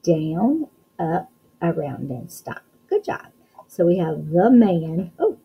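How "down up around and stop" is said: writing instructions. Shown as a demonstration. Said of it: "Let's write an N".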